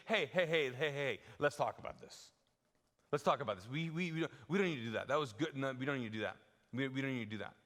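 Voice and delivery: talking Jesus down gently; voicing Peter rebuking. Peter pulling Jesus aside, mild coaxing rebuke. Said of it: "the word rebuke is basically".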